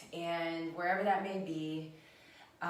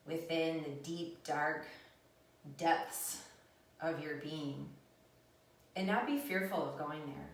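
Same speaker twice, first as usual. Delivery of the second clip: guided meditation. Acted. Leads a meditation.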